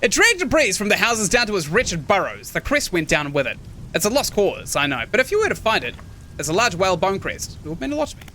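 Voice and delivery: put-on old man in slipping Scottish, nearer English; put-on British accent, landing closer to English. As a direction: let the Scottish accent drift towards English. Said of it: "he's actually more English than anything else".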